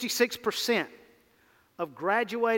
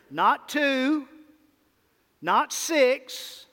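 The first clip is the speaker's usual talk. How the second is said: emphatic; 5 semitones higher, 3 dB louder, much slower than usual. Real, not acted. Preacher punching contrast.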